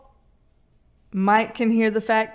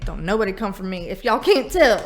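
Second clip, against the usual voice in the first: usual speaking voice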